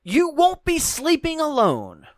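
horror trailer voice. Acted. Reading trailer tagline.

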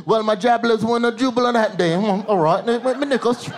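lightly hammed-up British interviewee; jumbled mock British chatter; mock British accent. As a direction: mumble through a garbled British accent. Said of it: "you see him two weeks later in the interview".

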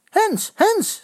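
high, loud appeal for handball; shouting. A narrator's reading. Boys appealing for handball from the sideline, shout. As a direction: yell for the handball call. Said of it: "schreeuwen ze tegelijk".

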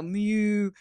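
"Mew" said like a cow's moo. Shown as a demonstration. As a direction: stretch "Mew" like a mooing cow. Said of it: "he wants me to sound like a cow".

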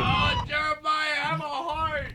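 high put-on voice.

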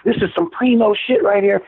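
high mock Southern, primo drawn out; Southern drawl. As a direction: mimic the biker savoring primo. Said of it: "Here's what he called it".

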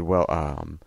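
low, dry, understated Shatner; dry Shatner quote. Retold or imitated. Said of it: "He said".

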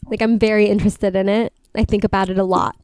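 slight lisp on the s sounds. Real, not acted. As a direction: let the s slip into a lisp. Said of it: "I'm lisping so much".

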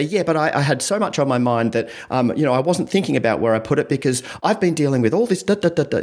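mock defensive rambling; defensive justification. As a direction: justify yourself, piling up excuses. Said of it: "have that tone of defensiveness".

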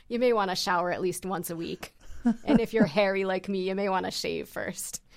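loud, broad Scottish brogue; thick Scottish accent. Retold or imitated. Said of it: "had this really thick Scottish accent".

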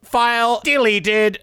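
robot voice. Acted. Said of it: "Robot Tim".

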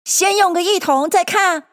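high-pitched Rabbit instruction; Rabbit's voice. A narrator's reading. Rabbit telling helpers about a barrowful, directing. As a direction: pitch it up as a character giving orders. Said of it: "只听见那兔子道".

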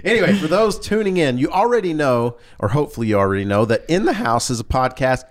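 a crack in the voice. Real, not acted. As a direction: voice breaking up high. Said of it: "did you hear my voice crack there?".

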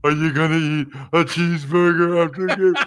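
slobbery caricature of his own voice; mocking voice impression. Host copies how people mock his voice, slobbery caricature. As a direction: mimic people making fun of your voice. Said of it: "that sounds like what they do".

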